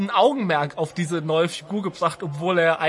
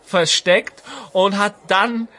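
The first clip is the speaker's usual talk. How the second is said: lightly voiced old storyteller; old Homer voice. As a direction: play a rambling old grandpa telling war stories. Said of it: "Homer, kannst du noch mal kurz kommen".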